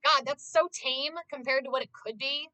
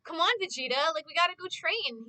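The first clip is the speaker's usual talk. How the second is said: lightly voiced, higher eager Goku; a hint of Goku's pleading cheer; 5 semitones higher than usual. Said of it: "Goku's like".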